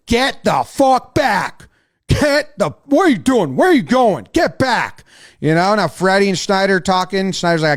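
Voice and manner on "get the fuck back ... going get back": raised-pitch command to back off; mock umpire yell; acted umpire shouting orders. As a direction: shoo the players back urgently. Acting an umpire ordering players back.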